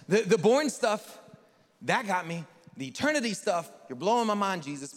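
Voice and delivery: hammed-up amazement; mock amazed. Nick marvelling at Jesus, loud mock awe.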